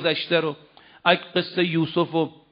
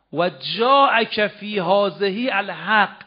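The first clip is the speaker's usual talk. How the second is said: slow Quran recitation; much slower than usual. Acted. Quran verse recited slowly.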